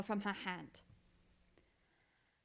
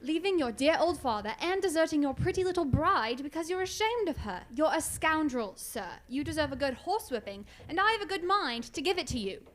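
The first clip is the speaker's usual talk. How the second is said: indignant tirade. Acted. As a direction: tear into him with outrage. Watson berating Tom.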